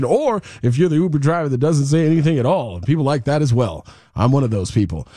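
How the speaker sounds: ad read. Acted. Host reads live Uber ad.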